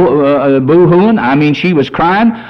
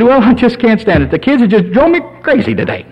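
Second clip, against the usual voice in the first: higher, imitating a tearful wife; mock crying wife; 6 semitones higher, faster than usual. Wife complains to husband about the kids, mock crying. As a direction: play an upset, crying wife. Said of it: "And she would be crying".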